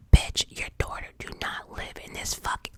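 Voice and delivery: whispered outburst with a sharp pitch jump; going off. Retold or imitated. Snapping at her ex about his daughter, whispered anger. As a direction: snap at him, still whispering. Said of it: "I went off".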